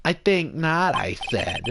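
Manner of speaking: lightly voiced Jewish mother as lawyer; a hint of Jewish mother, self-important. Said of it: "I'll definitely do that voice a little bit".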